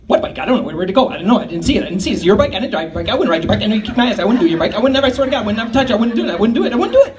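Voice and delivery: put-on panicked kid denial. Young Tom denying to brother.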